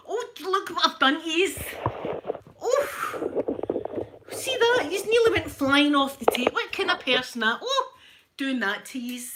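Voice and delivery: high, loud startled fluster; real alarm at nearly dropping them; flustered apology to the fallen things. Real, not acted. Nearly knocked items off table.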